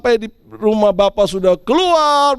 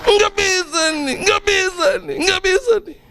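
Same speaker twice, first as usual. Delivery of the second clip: mock angry grumble; 8 semitones higher than usual. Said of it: "marah-marah".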